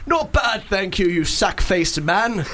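lightly voiced storybook sun; Sun character. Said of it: "all the other characters".

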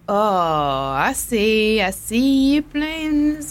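slow, drawn-out knowing tone. Retold or imitated. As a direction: draw it out, onto his game. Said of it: "I was like".

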